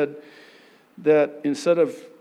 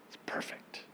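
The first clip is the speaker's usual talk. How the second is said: whisper; 17 dB quieter than usual. Real, not acted. Awe at finished vessel.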